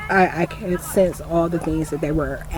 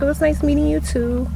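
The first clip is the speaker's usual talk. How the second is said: higher, sweeter mock cop voice; imitating the cop; 10 semitones higher than usual. The cop politely replying, in a higher mock voice. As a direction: lift it up like the polite officer. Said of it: "And she was like".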